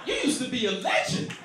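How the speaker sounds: put-on very high, squeaky little kid voice, laughing; a toddler roasting his dad; four-year-old voice. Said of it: "my four-year-old looking up at me like".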